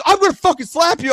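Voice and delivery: high-pitched angry warning; mock road-rage menace; retold threat. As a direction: imitate the driver threatening. Driver threatens him.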